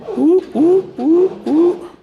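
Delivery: squeaky falsetto ooh, ooh; high-pitched excited cooing. Acted. Celebrating the steering working.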